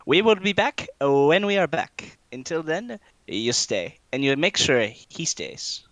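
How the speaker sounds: high, loud orders in character; bossy knight instructing the driver, pitch swooping; commanding Walter. Acted. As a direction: lay down the law, theatrically. Plays Walter giving the driver orders.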